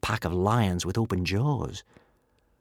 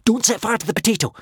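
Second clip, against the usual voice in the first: reminding; 11 semitones higher, 4 dB louder, faster than usual. A narrator's reading. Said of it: "Hiccup reminded him".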